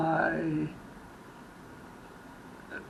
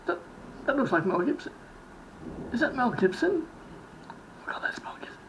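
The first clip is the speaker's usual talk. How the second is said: starstruck fan; 7 semitones higher, faster than usual. Retold or imitated.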